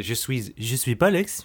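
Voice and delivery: light mock French accent. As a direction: say it in a hint of French. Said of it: "in a French accent".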